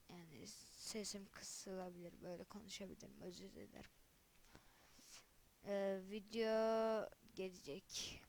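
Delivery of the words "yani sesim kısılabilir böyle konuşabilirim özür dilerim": husky, strained voice; hoarse voice. Real, not acted. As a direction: voice going from being ill. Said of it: "O yüzden sesimiz". (kısık ses)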